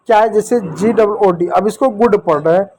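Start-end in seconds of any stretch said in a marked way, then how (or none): 1.9-2.2 "गुड" with a short u; short OO vowel. Shown as a demonstration. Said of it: "छोटा ऊपर". ("गुड" में छोटा उ बोलें)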